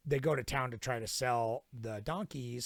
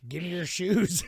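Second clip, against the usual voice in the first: louder, higher demand breaking into a laugh; laughing mock bandit demand; 6 semitones higher, 8 dB louder than usual. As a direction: bark the bandit's demand while cracking up. Gold Hat bandit demand.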